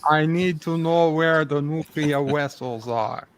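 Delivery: lightly put-on Russian spy accent; a hint of a Cold War Russian agent; mock Russian accent. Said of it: "crossed it with a Rusky".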